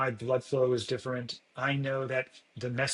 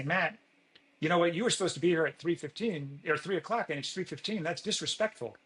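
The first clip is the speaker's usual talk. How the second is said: sharper accusing complaint; 4 semitones higher than usual. Retold or imitated. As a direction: pitch it up and scold him for being late. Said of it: "Or if you say".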